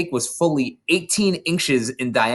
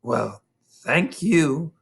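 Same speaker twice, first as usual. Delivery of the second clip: bemused; 4 semitones higher, much slower than usual. A narrator's reading. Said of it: "totally bemused".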